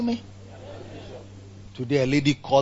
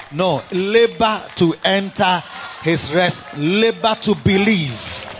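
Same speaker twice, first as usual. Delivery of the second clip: preaching shout; slower than usual. Real, not acted.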